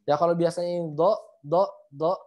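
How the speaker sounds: wrong thin do; thin dod. Shown as a demonstration. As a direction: demo the flat do sound. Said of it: "nggak naik, maka nggak tebal".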